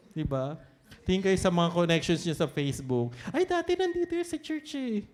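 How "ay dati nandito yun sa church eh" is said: mock nostalgic quote. Quoting people on Facebook.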